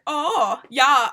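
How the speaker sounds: briefly attempted German accent; a hint of a German accent, quickly abandoned. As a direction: start a playful German prince's accent. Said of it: "I'm not gonna do a German accent".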